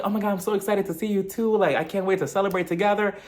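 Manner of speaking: imitated over-keen friend; Mia. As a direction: gush eagerly in a lifted voice. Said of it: "Mia, she's like".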